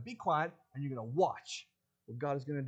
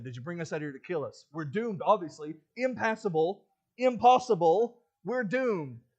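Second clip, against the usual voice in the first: hammed-up panic, rising and louder; panicked complaint; 8 dB louder than usual. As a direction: wail like a doomed crowd. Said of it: "this is right after they said".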